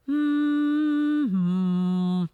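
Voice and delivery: loud sustained hum sliding down to the throat; humming down into the throat; demonstration hum. Shown as a demonstration. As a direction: hum high, then drop it back into the throat. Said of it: "back of the throat".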